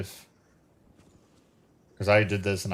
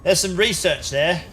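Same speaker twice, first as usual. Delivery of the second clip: put-on a wandering, higher wizard accent spotting research; Radagast accent; 7 semitones higher, slower than usual. Streamer slipping into a wizard accent over loot, lightly wizardly. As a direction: lilt it like an old wizard muttering over loot. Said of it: "I don't know what accent that was".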